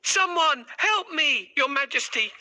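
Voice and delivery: high, fast call for help; urgent cries. Acted. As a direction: shout for help like someone drowning. Puss and king shouting, alarm.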